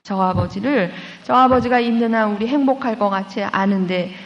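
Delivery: mildly imitating a girl railing at God; understated anger poured out at the cross; retold angry prayer. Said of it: "삿대질로 예수님한테 다 퍼붓대요".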